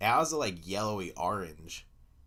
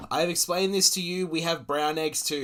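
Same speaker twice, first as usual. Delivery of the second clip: mock American; 8 semitones higher, 5 dB louder than usual. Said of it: "mock American reply".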